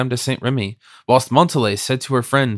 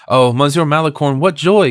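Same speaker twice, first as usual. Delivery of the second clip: joyful cry; 2 semitones higher, 4 dB louder than usual. Acted. Louise thanks Malicorne, crying out with joy. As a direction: burst out with happy joy. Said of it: "cried Louis".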